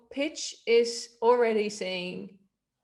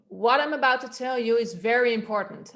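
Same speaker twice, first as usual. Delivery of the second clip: a bit louder, urgent and firm; louder urgent read; 5 dB louder than usual. Shown as a demonstration. Coach demoing urgency with louder volume. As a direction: push it out so people listen. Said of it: "then I can use a louder volume".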